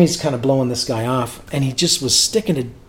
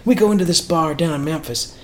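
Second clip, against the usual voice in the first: higher, lightly imitated Southern accent; 4 semitones higher than usual. Singer telling a bar story, imitated Southern accent. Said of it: "He's got that southern accent".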